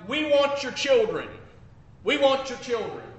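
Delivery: half-hearted protest yell; retold mob scream. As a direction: voice the mob's chant, held back. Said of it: "they were screaming out".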